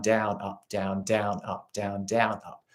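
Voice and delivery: spoken downstroke count in rhythm; counting the strokes. Shown as a demonstration. Teacher counting strokes for students in rhythm. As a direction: count the strums in time. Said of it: "We think down".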